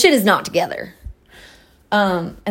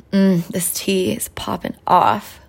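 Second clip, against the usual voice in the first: whispered aside; slower than usual. Real, not acted. Sipping tea, she whispers a happy aside to herself. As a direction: murmur it to yourself between sips.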